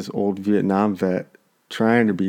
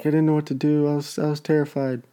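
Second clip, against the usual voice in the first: imitating a panicked kid, pitched up; retold panic; 7 semitones higher, faster than usual. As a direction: mimic a frightened kid explaining himself, higher voice. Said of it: "in a panic".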